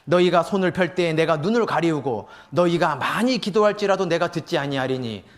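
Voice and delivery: measured, solemn Bible reading voice; lightly formal scripture recitation. Acted. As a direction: read the verses with weight. Reads Isaiah passage aloud.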